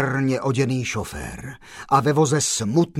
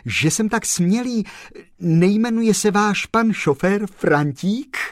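high, louder eager blurt; 11 semitones higher, 5 dB louder than usual. Acted. Postman blurts a guess to the gentleman, high and eager. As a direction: burst out with sudden excitement.

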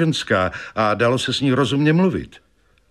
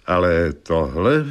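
puzzled colonel; 4 semitones lower than usual. Acted. Colonel hesitates over supernatural.

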